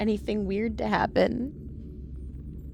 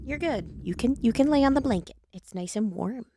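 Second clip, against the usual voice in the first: pet talk; 3 semitones higher, 4 dB quieter than usual. Real, not acted. Talking to the dog.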